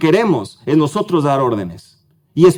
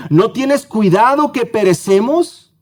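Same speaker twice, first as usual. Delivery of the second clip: alarmed plea; 6 semitones higher, 3 dB louder, slower than usual. Acted. Discípulos clamando en la tempestad.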